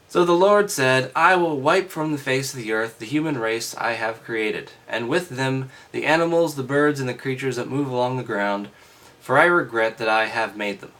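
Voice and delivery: loud, grand reading of God's words; scripture reading. Acted. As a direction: declaim it like a pronouncement.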